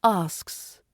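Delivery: "asks" with a light final s. Shown as a demonstration. Teacher demonstrating for learners, soft ending on "asks". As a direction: ease off on the last s of "asks". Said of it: "the second one's softer".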